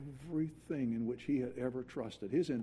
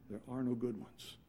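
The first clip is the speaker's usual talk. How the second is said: hushed repeat; 3 semitones lower, 6 dB quieter than usual. Shown as a demonstration. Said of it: "repeats the key line, softer".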